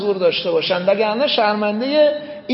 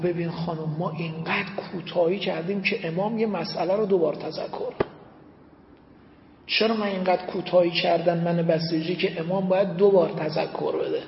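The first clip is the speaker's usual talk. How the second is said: grieving husband; 4 semitones lower, 4 dB quieter than usual. Retold or imitated. Husband confesses in tears.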